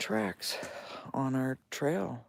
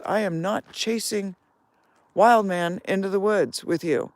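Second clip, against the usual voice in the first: mock scream; 6 semitones higher, 7 dB louder than usual. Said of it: "she screams at me".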